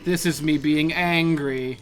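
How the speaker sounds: slow, flat mock-angry hero; lightly voiced stiff Anakin; Anakin impression. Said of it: "I'm Anakin Skywalker".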